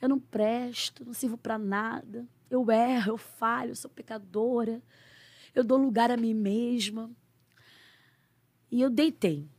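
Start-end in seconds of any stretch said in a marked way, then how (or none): 0.0-7.1 retold tearful prayer, quiet and slow; half-cried prayer of self-blame, slowed down. Woman on her bedroom floor praying to God, softly tearful. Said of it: "comecei a chorar e falei".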